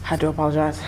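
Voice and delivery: breathless, winded between words; out of breath. Real, not acted. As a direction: talk while gasping for air. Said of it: "I'm out of breath".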